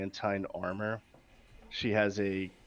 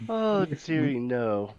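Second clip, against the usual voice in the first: high, loud "dearie" put-down; grand lady correcting someone, starting high and settling; condescending lady; 6 semitones higher, 5 dB louder than usual. Acted. Lady Saveshna corrects Honoria about family, high condescending lady.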